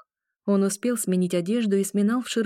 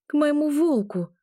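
voice breaking; 9 semitones higher than usual. A narrator's reading. Agata tells her familiar she is going to her wolf, voice breaking. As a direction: blurt it out as the voice breaks. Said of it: "ответила я срывающимся голосом".

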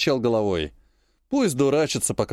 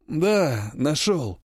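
strangely sounding voice; much slower than usual. Acted. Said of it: "Голос бота звучал как-то странно".

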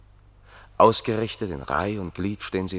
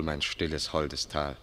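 quiet echo of the song; 4 semitones lower, 8 dB quieter, slower than usual. Acted. Leise Zitat des Lieds.

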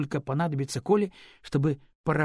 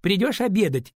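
loud, higher call down the stairs; girl calls after the departing boy, loud and high; calling after him; 8 semitones higher, 8 dB louder than usual. Acted. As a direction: shout it after him as he leaves. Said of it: "крикнула она ему вслед".

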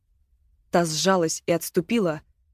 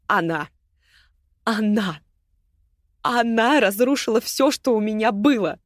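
bitter accusation; 3 semitones higher than usual. Acted. Агата accuses Мила before everyone, bitterly rising. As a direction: point at her and lash out.

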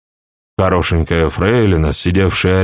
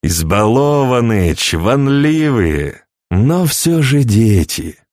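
amused scorn; 3 semitones higher, slower than usual. A narrator's reading. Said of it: "посмеиваясь".

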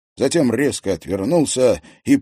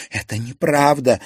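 a hot, louder denial; heated exclamation; 6 semitones higher, 5 dB louder than usual. A narrator's reading. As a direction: fire it back at him. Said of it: "горячо воскликнула девушка". (горячо, громче)

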